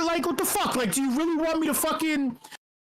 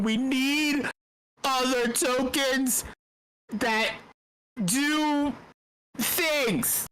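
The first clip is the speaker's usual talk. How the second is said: slow, measured stump speech with pauses between words; mock presidential rally line, each word spaced out; presidential candidate cadence; much slower than usual. Shown as a demonstration. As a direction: deliver it like a candidate rallying a crowd. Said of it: "I say it with, with that cadence and that rhythm".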